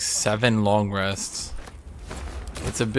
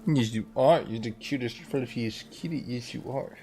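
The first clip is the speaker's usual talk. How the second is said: soft cooing pet voice; 5 dB quieter than usual. Real, not acted. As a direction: coo softly to a kitten. Baby talk to cat.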